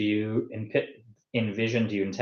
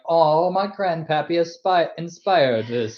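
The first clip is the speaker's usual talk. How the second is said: awed grandkid; 7 semitones higher than usual. Pretend. Voices grandkid discovering grandfather's inspiration.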